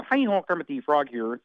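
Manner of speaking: light Kermit imitation; a quick hint of Kermit's voice; brief Kermit line; Kermit the Frog. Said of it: "So Kermit the Frog is a".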